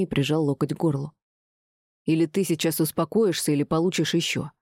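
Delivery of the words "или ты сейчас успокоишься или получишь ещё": ordinary delivery, nothing marked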